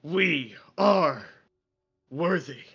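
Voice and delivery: mock-earnest symbiote chanting affirmations; symbiote reciting affirmations. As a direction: intone each affirmation like a proud mantra. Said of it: "He's just like".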